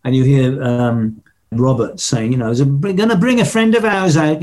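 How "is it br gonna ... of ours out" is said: put-on light Birmingham accent, a touch higher; lightly voiced Brummie stage announcement in a Birmingham accent. Robert announcing a guest to the crowd, light Birmingham accent. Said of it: "that Birmingham accent".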